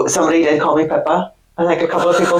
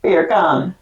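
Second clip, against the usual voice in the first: Beer con as Jamaican bacon, open con; Jamaican-accent bacon; 2 semitones lower than usual. Shown as a demonstration. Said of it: "say it in a Jamaican accent".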